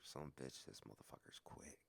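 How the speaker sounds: almost whispered, to himself; hushed aside. Retold or imitated. Stunned realization while watching, retold.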